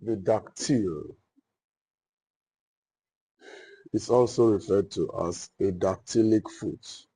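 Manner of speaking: measured dictation with pauses between phrases. Real, not acted. Teacher dictating a definition for students' notes, dictation. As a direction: dictate it phrase by phrase for note-takers.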